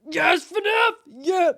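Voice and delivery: high, loud shout of joy; excited cheer. Real, not acted. Cheering her game.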